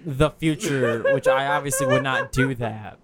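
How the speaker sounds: laughing. Real, not acted. Laughing self-defence.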